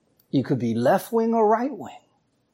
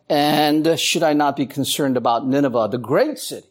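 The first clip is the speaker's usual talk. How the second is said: God speaking; 4 semitones lower than usual. Retold or imitated. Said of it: "But Yahweh said".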